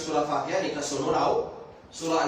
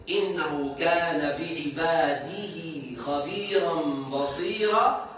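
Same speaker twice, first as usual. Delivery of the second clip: Quran recitation; much slower than usual. Shown as a demonstration.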